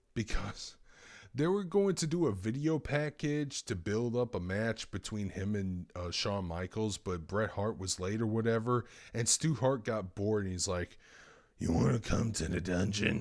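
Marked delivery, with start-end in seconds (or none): 11.6-13.3 very raspy voice throughout. Speaker retelling a story about Stu Hart and J R, raspy Stu Hart impression. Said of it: "Because he has a very raspy voice".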